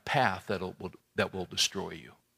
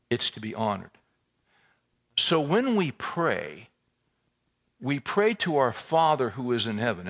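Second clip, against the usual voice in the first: ordinary talk, nothing marked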